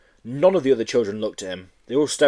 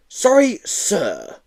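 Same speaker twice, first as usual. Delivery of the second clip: loud demanding sorry sir; 10 semitones higher, 3 dB louder, much slower than usual. Acted.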